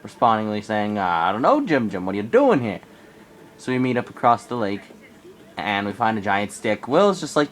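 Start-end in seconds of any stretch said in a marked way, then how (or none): 1.0-2.8 yelling back. Retold or imitated. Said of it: "he yells back".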